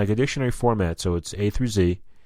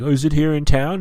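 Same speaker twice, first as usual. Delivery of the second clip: lightly voiced curious tourist, higher and louder; mock tourist; 8 semitones higher, 8 dB louder than usual. Narrator playing a tourist to the waiter, lightly mock-curious. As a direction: ask like an eager visitor. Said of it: "I'm like".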